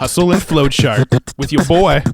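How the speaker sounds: slow radio DJ hype voice. Pretend. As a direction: announce it like a club DJ. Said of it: "That was my D J voice".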